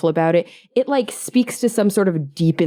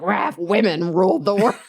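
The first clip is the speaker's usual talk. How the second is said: mock battle cry; 2 semitones higher than usual. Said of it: "women be like".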